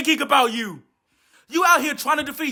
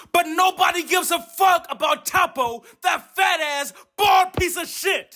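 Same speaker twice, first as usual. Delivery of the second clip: shouting; 5 semitones higher than usual. Real, not acted. Ranting about Toppo.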